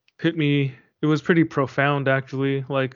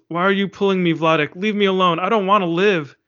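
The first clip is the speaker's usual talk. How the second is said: raised, pitched-up mock yell of despair; retold yell; 4 semitones higher, 3 dB louder, faster than usual. A grieving wife pushing her husband away, mildly yelling. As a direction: read it as a half-voiced anguished cry. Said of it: "And then she yells".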